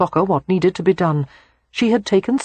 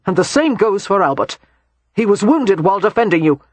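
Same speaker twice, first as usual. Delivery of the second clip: heated defense; 3 semitones higher than usual. Acted. Christopher defends himself, heated.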